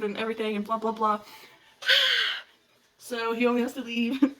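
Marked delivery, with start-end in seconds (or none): 1.8-2.4 overwhelmed sigh. Real, not acted. Overwhelmed by the plot she retells.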